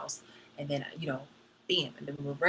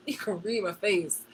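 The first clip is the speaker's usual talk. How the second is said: laughing repeat; 4 dB louder than usual. Real, not acted. Laugh heard repeating own line.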